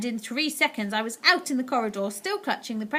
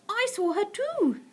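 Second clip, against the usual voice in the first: put-on higher, slow old lady; grandmother voice; 11 semitones higher, slower than usual. A narrator's reading. Grandmother to grandson, grave. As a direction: speak gravely.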